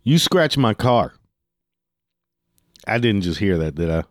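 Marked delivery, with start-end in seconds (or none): 0.0-1.1 lightly voiced accusing driver, slow and drawn out; other driver's accusation. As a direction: imitate the driver making his accusation. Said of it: "and then says".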